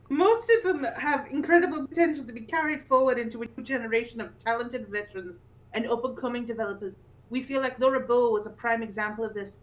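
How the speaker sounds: lightly put-on Yorkshire reading voice; Yorkshire accent. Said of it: "I'll do the Yorkshire one".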